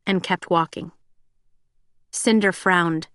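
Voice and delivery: normal talking voice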